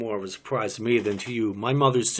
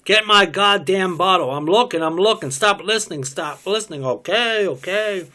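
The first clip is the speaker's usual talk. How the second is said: high loud furious yelling; angry shouting; 7 semitones higher, 6 dB louder than usual. Acted. Woman screaming at man over her bottle, furious shouting. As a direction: yell it at him, fed up.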